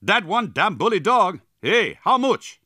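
high, loud French-Canadian broken English; eager foreign buyer's broken-English cry. A narrator's reading. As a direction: spit out excited broken English with a foreign accent. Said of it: "who spat broken English".

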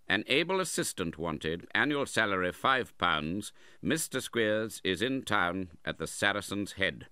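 reading an advertisement. A narrator's reading. Uncle reads a school advertisement aloud, formal. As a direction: read the notice out formally. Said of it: "read as follows".

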